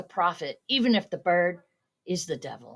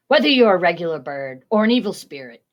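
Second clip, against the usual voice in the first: raised, louder call; shouted; 7 dB louder, faster than usual. A narrator's reading. Man shouting at the raven, voice raised. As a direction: call out at the bird, voice up. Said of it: "he shouted".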